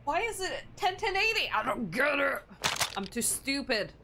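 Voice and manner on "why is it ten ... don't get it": very high, louder baffled whine; exasperated confusion. Real, not acted. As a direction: throw up your hands in confusion. Repeats the puzzle, exasperated.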